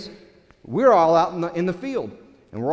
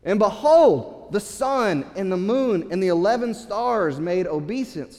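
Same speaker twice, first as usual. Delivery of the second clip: excited younger brother; 3 semitones higher than usual. Acted. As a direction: savor every word of the news. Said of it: "So he says to them".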